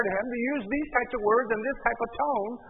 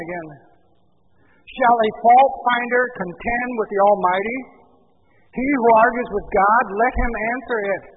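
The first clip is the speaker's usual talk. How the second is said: forceful rebuke; 3 semitones higher, 7 dB louder than usual. Acted. God's rebuke read forcefully.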